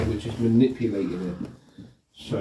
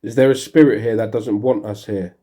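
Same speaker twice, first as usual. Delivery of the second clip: louder call to a spirit; talking to a ghost; 6 dB louder than usual. Real, not acted. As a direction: call out into the dark. Calling out to spirit.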